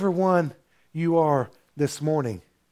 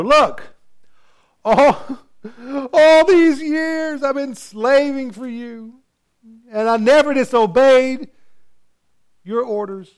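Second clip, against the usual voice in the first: high, whiny complaint with a crying edge; whiny older brother; 9 semitones higher, 6 dB louder than usual. Acted. The older brother complains to his father, high and whiny. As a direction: whine like a sulking kid who got left out. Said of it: "they have that whiny voice".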